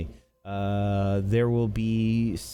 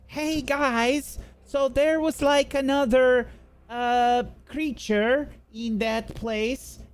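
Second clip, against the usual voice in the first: high-pitched call out to the group; high, hesitant in-character yell; 11 semitones higher than usual. Acted. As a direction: call it out high, stumbling over the words. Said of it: "she yells".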